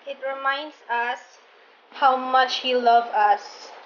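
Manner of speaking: slow sincere explanation; slow heartfelt words; tender, slow. Real, not acted.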